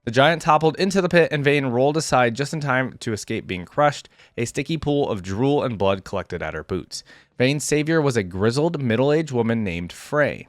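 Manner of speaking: even, measured read-aloud narration; story narration. A narrator's reading. YouTuber reading a champion's biography to viewers, story narration.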